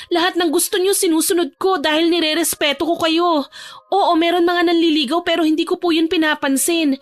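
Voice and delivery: put-on high-pitched, pleading young woman; distressed pleading daughter. Teresa to her angry father, high distressed denial. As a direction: deny it, upset and bewildered.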